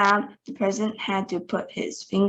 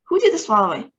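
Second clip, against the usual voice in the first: high and louder demand; yelling; 7 semitones higher, 5 dB louder, much faster than usual. A narrator's reading. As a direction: keep the yell going. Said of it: "yelled the president".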